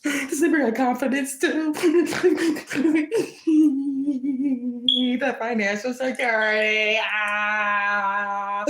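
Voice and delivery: over-the-top jealous rival near tears; mock anguished whining. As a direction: beg for it to stop, fake-tearful. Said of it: "Anyway, back in character".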